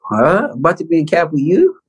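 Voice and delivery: high, quick baffled question; imitating a kid who can't believe it; bewildered teenage kid. Teen facing his idol at camp, incredulous. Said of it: "a teenage kid, just like".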